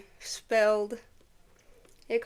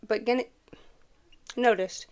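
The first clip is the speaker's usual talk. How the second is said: whisper; 5 dB louder than usual. A narrator's reading. Whispered aside, unvoiced.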